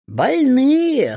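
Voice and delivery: high, loud bark from the hut; shouting hut. A narrator's reading. The hut yells at the sleeping witch, loud and high. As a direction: yell it up high like an impatient old house. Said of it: "хлопнула ставнями изба".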